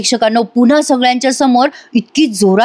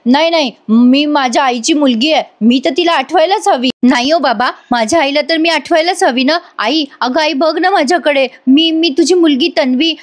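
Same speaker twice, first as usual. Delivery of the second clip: higher-pitched, stubborn daughter's plea; mock loud insistence; 4 semitones higher than usual. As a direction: insist urgently, without really shouting. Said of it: "ती कानाजवळच बोलत असते मोठ्या मोठ्याने". (हट्टी, आग्रही आर्जव)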